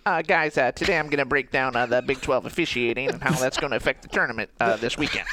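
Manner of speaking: lightly voiced dorky analyst; a hint of a nerdy sports analyst; Bloom impression. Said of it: "I can just do the impersonation".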